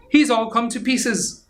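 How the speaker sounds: high dismayed wail; dismayed skeleton. Acted. Big skeleton staring at the collapsed dog, high dismay. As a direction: sound shocked and dismayed. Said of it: "the big skeleton said".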